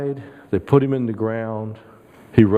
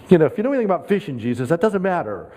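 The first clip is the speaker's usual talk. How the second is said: scoffing fishermen; 4 semitones higher, faster than usual. Retold or imitated. Disciples scoffing at Jesus.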